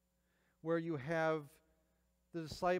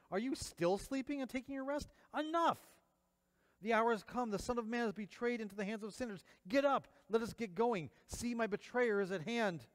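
higher and louder, sharp rebuke; stern rebuke; 7 semitones higher, 4 dB louder than usual. Acted. Jesus rousing his sleeping disciples, loud stern rebuke. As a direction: wake them with a stern cry.

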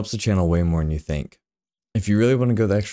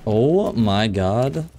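scared horror game streamer; 2 semitones higher, much slower than usual. Real, not acted. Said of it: "That jump scared me".

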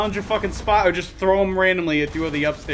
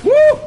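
loud, very high whoop; startled whoop; 11 dB louder than usual. Real, not acted. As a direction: let out a sudden piercing "woo". Reacting to near miss.

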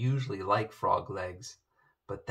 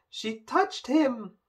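moan; 13 semitones higher, 4 dB louder, slower than usual. A narrator's reading. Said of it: "moaned Prince Humperdinck".

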